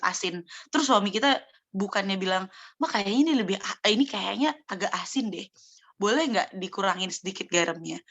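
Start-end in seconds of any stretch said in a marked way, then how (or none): 2.8-8.0 mildly tactful, easygoing spouse; gentle polite request. Acted. Husband gently asks wife to cut the salt, mild and polite. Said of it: "Mana lebih enak suami kita ngomong kayak gitu".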